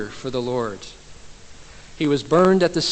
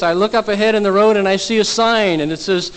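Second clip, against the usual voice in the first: higher, louder exasperated retelling; very frustrated; 5 semitones higher, 4 dB louder than usual. Retold or imitated. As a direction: push the question out in exasperation. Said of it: "Very frustrated at this point".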